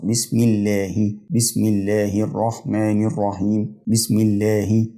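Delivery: "الله" slowly as llaahi; kasra on final ha. Shown as a demonstration. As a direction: recite "بسم الله" slowly with a clear hi ending. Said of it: "فبرضه بكسرها".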